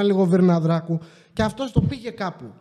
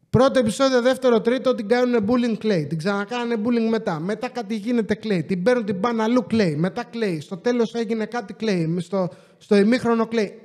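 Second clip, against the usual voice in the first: exasperated listing; 2 semitones higher than usual. Real, not acted. Exasperated list of her crying episodes.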